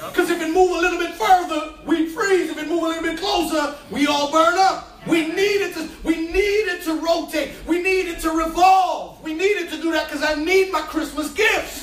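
preaching at full force. Acted. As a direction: punch each "we need" line. Preaching, shouted points.

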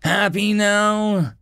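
slow, high, exasperated jab; drawn-out grumpy taunt; growling. A narrator's reading. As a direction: stretch it out, thoroughly fed up. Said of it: "he growled".

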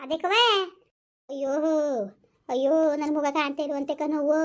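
keen for the lost son; wailing lament. Acted. Mother wails to Savitrakka over her missing son, weeping.

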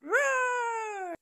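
a big pretend sea-serpent roar, pushed up loud.

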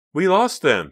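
high, loud exclamation of relief; excited cry. A narrator's reading. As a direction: cry it out, thrilled. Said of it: "Pam cried".

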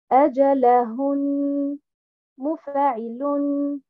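Arabic stress on أجلهن read in the correct pattern. Shown as a demonstration. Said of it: "et non pas".

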